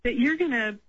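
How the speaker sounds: mock scolding, no real shout; retold yelling. Caller quoting a radio guest yelling at people, mild mock yell. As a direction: imitate someone telling people off, at normal volume. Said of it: "literally yelling at people".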